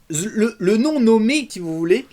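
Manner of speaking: high, drawn-out attempt at a Québécois accent; badly faked Québécois French; mock Québécois accent. Host clowning in an outtake, playful attempt at a Québécois accent. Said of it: "je devrais prendre un accent québécois".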